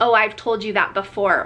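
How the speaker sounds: ordinary talk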